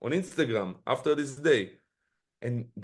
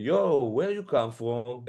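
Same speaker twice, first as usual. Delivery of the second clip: slow, drawn-out greeting from a stranger; lightly voiced guy, stretching it out; casual club stranger, slowed right down; guy's greeting; slower than usual. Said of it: "he came to me like".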